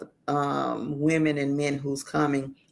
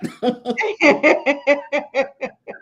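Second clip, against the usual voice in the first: loud high laugh; 10 semitones higher, 3 dB louder than usual. Real, not acted. Big laugh at the rod story.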